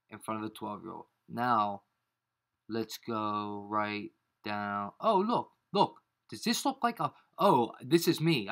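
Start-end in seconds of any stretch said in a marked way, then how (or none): 5.0-8.5 sudden high, loud "oh, look"; surprised outburst. Real, not acted. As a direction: caught off guard, blurting it out. Spots his own post, caught off guard.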